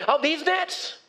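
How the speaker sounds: lightly mocking, grudging reply; snarky Simon. Simon grumbling to Jesus about his freshly cleaned nets, incredulous. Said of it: "you get Simon here".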